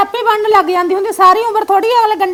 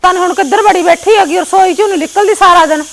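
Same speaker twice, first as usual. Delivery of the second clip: put-on irritation, a bit louder; staged anger; 4 dB louder than usual. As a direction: grumble loudly for show. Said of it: "ਗੁੱਸੇ ਦਾ ਨਾਟਕ ਕਰ ਦੇ". (ਦਿਖਾਵੇ ਦਾ ਗੁੱਸਾ)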